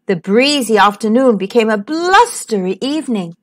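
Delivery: put-on lively, sing-song reading to children; animated children's story narration; storytelling voice. A narrator's reading. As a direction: read it like a bedtime picture book.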